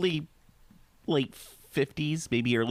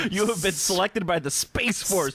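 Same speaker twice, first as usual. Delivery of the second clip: higher announcer voice; 5 semitones higher than usual. Pretend. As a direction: read it like a recruitment ad. Mock recruitment announcement.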